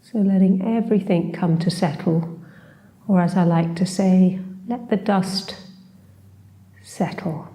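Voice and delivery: unhurried meditation guide, long pauses between phrases; guided meditation. Acted. Teacher leading a short seated body scan, calm guided meditation. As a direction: gently guide them through a body scan, leaving space.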